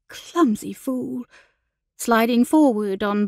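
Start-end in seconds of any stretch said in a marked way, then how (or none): 0.1-1.2 slow, higher inward scolding; exasperated self-reproach; self-chastising. Acted. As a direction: scold yourself under your breath, drawing it out. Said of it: "inwardly chastising herself".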